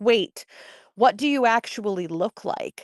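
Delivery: ordinary delivery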